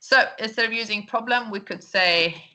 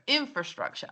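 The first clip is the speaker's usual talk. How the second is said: INfrastructure, higher start, softer falling end; stress on first syllable; 5 semitones higher, 5 dB quieter than usual. Shown as a demonstration. Teacher repeating the model for learners, stress on first syllable. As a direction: say "infrastructure" with IN high, then falling away. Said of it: "bueno, esa es la primera".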